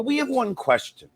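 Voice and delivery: mock staffer. White House staffer questioning him.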